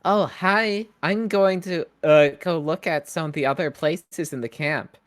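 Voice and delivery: a hint of a chirpy camper; character voice. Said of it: "She says, she goes".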